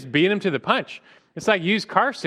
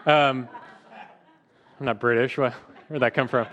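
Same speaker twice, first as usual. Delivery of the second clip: laughing; 2 semitones lower than usual. Real, not acted. Laughing at own slip.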